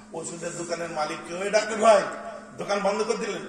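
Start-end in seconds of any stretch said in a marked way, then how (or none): 1.4-3.5 calling a shopkeeper. Retold or imitated. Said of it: "বলে কি বলে না".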